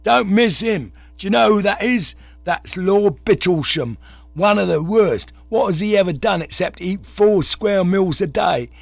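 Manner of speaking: loud, high soapbox jeer; ranting orator. A narrator's reading. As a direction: point him out to the mob. Orator continues the harangue.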